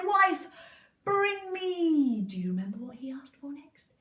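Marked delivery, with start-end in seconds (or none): 0.0-2.2 loud, higher giant call; giant's order. Acted. Giant calling his wife for more, loud. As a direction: call out bossily.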